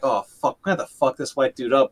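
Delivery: low, quiet thought to oneself; retold inner thought. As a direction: voice a private thought, low and hurried. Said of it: "back of my head".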